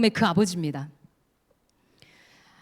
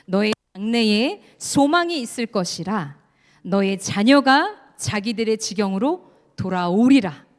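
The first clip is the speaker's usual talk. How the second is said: slow, loud, solemn group recitation; unison scripture reading; 4 dB louder, slower than usual. Shown as a demonstration. Preacher leading the congregation in reading Jeremiah, slow and loud. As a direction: lead the room through the verse, very slow. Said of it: "같이 읽겠습니다".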